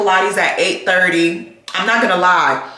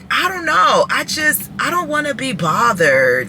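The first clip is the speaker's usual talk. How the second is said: exasperated shout; 6 semitones higher than usual. Real, not acted. Exasperated outburst.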